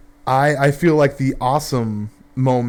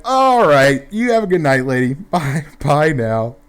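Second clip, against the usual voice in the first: mock cheerful goodbye; 2 semitones higher, 4 dB louder than usual. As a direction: wave her off sweetly. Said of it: "And we're like".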